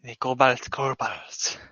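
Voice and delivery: a small creature murmuring its thanks; kobold voice. Acted. Kobold farewell to party.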